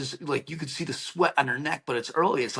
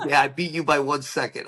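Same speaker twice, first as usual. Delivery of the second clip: laughing tease. Retold or imitated. Utah laughing while teasing.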